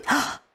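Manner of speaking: high, quick gasp; gasp of realization. Retold or imitated. Woman spotting the policeman, sudden gasp. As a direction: draw a sudden small gasp.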